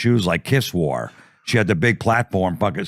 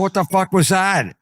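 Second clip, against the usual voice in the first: mock shocked; 10 semitones higher than usual. Ear nibbled, shocked.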